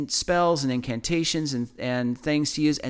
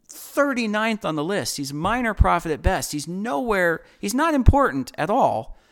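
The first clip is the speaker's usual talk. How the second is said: higher-pitched indignant dismissal; ticked; 5 semitones higher than usual. Retold or imitated. Retelling a man dismissing Jesus as minor prophet, ticked. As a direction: voice a man's irritated, scornful objection. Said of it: "He's ticked".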